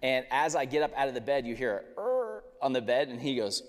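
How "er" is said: high drawn-out creak; imitated bed creak.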